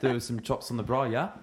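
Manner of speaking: South African with a tag "yeah" at the end; South African accent. Acted. Practising for the friend, South African accent. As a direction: attempt South African, lifting the final "yeah". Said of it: "I always finish with".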